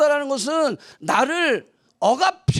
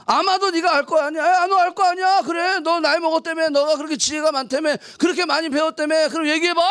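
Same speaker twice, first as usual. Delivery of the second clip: mock ironic challenge, a touch higher; ironic taunt; 4 semitones higher than usual. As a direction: goad him with irony. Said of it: "반어법적으로 얘기하는 거예요". (반어적으로 비꼬는 말투)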